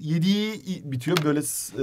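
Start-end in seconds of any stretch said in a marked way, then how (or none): 1.2-1.8 awkward strained sound. Shown as a demonstration. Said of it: "sıkıntılı bir ses çıkardım".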